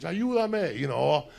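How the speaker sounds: high, loud begging cry; mock pleading. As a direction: plead for help in mock panic. Girls begging in comedy bit.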